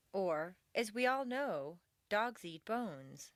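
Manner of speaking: slow, "as we all know" set apart by pauses; measured lead-in, then "bones" closes it; aside phrasing. Shown as a demonstration. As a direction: hold "as we all know" open, then land "dogs eat bones".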